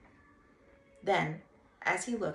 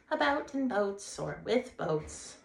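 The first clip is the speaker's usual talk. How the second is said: composedly; 3 semitones higher, 5 dB louder, slower than usual. Acted. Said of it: "the rat went on composedly".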